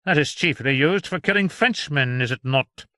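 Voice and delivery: scornful sneer at magic; mocking physician; contemptuous. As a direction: pour scorn on the idea. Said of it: "cried Doctor John contemptuously".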